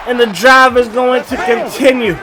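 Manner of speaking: winded, short of breath. Real, not acted. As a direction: talk while out of breath. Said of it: "I'm running out of breath".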